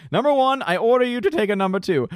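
lightly hammed captain barking an order at his dog; Picard giving an order. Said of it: "Picard taking the dog out saying".

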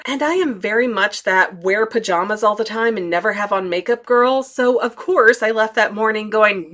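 usual speaking voice

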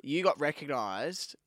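normal talking voice

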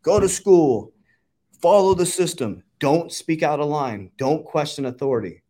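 mocking the rules drilled into him at school; mock authority voice. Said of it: "I was just taught".

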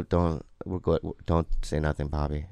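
low, soft talking to himself; hushed self-restraint, voice dropped; internal dialogue. Retold or imitated. Man telling himself to stay out, quiet. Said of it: "like, that internal dialogue".

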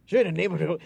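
mock Irish accent for an audition. Actor retelling his prank audition, mock Irish accent. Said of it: "Irish accent".

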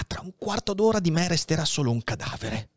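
lightly voiced dying old priest, weary; a hint of an old man shivering with fever; dying old abbé. Dying Faria tells Edmond his attack is coming, weary.

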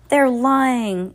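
high, loud accusation; crying out. A narrator's reading. Ernest accuses the children, loud high cry. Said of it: "cried Ernest".

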